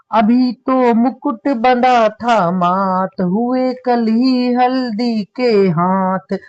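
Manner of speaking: very slow mournful verse; poem recitation. Acted. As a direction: recite the lament slowly, letting it ache. Teacher recites sorrowful verse. (धीमा करुण काव्य पाठ)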